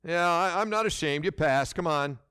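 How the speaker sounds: a dismissive mock verdict, shrugging; lightly voiced unimpressed God; grudging. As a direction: wave them through reluctantly. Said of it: "How is God gonna grade you".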